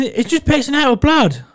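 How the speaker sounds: put-on a panicking boyfriend wailing, high and loud; panicked cry. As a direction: wail it like blood is everywhere.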